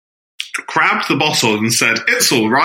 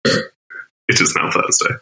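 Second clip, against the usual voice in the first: whisper; 6 semitones lower, slower than usual. Real, not acted. Whispered aside.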